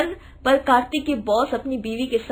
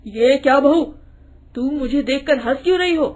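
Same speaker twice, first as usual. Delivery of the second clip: faster, puzzled question; puzzled father-in-law; 5 dB louder than usual. Acted. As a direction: ask why she laughs. (हैरान ससुर का सवाल)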